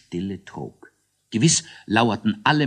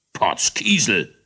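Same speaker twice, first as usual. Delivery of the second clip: grumble; 4 dB louder, slower than usual. Acted. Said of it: "brummte König Eierbatz".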